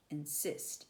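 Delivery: insist, leaning on the final "sist"; iambic stress. Shown as a demonstration. Teacher letting students hear an iamb, insist stressed on "sist". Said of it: "you can hear that".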